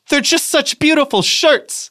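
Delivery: high, slow, hammed-up sobbing Daisy; mock crying Daisy. Mocking Daisy crying over the shirts, high and slow. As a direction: wail it like an overdone crybaby. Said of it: "began to cry stormily".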